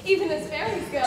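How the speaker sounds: usual speaking voice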